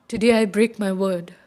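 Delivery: hushed, breathless whisper. Acted. Bishu taking her oleanders, whispered farewell. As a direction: let it fade to a whisper. Parting words over the dead.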